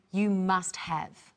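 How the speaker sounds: slow, "must" stressed; slow model. Shown as a demonstration. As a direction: model it slowly for learners. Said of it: "Try at home saying".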